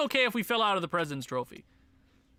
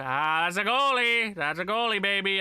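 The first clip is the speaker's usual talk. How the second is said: excited cheer; 3 dB louder than usual. Real, not acted. Excited over a goalie pick.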